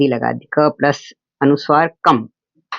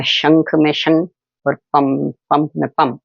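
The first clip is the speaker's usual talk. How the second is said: slow sounding out; slower than usual. Shown as a demonstration. Teacher breaking the word down for pupils, very slow. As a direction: spell out "शं" very slowly, syllable by syllable. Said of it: "teacher sounding out syllables".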